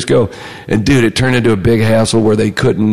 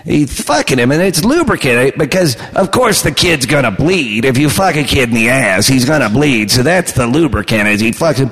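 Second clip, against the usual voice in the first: Gilbert Gottfried. Retold or imitated. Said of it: "Gilbert Godfrey does his version".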